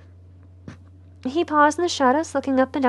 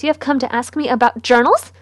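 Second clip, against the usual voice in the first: the question again, louder and more outraged; louder indignant repeat; 5 dB louder than usual. Acted. Mother repeating her question louder in disbelief. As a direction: hit journals harder the second time.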